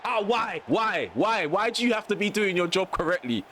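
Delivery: high repeated whining why; exasperated outrage. Real, not acted. Outraged at linesman.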